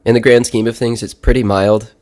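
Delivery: stuffy blocked nose, sick with a cold. Real, not acted. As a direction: talk like there's a clothespin on your nose. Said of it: "I sounded more like I sound right now, which is like I have a clothespin on my nose".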